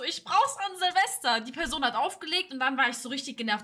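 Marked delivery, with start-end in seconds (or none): 0.0-1.4 slow indignant insistence. Retold or imitated.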